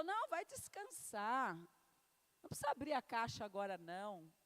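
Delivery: lightly voiced, calm divine voice; gentle voice of the Holy Spirit. Pastor voicing the Holy Spirit telling her to rest. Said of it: "o Espírito Santo falou".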